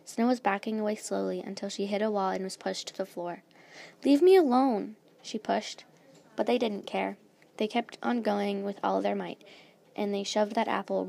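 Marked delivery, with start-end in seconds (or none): 4.0-5.0 high, loud cornered protest; protesting shout. A narrator's reading. Cornered Snow pushes her attackers away, shouting. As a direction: shout them off, pitch raised.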